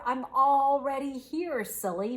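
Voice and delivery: high mouse voice, falling back on "silly"; squeaked. A narrator's reading. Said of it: "Mouse squeaked".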